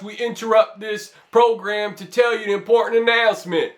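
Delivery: put-on a touch of an old radio newsreader; lightly voiced bulletin announcer. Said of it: "demonstrate this for you".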